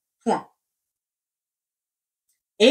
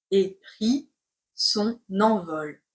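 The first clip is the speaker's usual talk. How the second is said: chunked and softer; slow dictation; 2 semitones lower, 3 dB quieter than usual. Shown as a demonstration. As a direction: dictate it in pieces. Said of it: "C'est parti pour la dictée".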